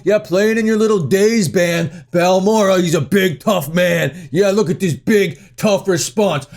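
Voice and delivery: sneering, lightly put-on tough-guy swagger; sarcastic big-man posturing; mock tough guy. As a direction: puff yourself up like a mock hard man. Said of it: "tough guy, cooler than thou persona".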